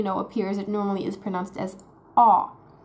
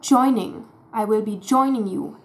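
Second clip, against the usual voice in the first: German ch for j; 3 dB louder than usual. Shown as a demonstration. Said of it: "turning J into Ch".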